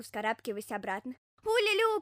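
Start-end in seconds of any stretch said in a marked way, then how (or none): 1.4-2.0 high, loud bird trill from a hedgehog; bird-like squeal. Acted. Hedgehog whooping like a bird, high squeal. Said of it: "по птичьи заверещал ёжик".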